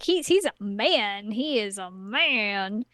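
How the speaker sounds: drawn-out, slow stress on "man"; slow, dawning emphasis on "man"; awestruck realization. Retold or imitated. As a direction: stretch "man" out with a little swoop each time. Retold swooning realisation about him.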